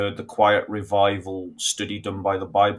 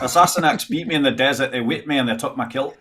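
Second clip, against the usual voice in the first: hammed-up Scottish accent; 3 semitones higher than usual. Shown as a demonstration. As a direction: play the wronged Scot in a broad accent. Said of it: "A Scottish accent would be".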